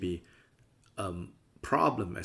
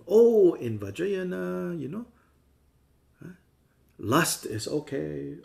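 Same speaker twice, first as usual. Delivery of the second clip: higher, louder, slow and indulgent; mock permissive voice; 7 semitones higher, 7 dB louder, slower than usual. Teacher parodying lax Vajrayana students, in a slow, high, indulgent voice. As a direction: drawl out the lax excuse in a high voice. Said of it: "But it doesn't mean".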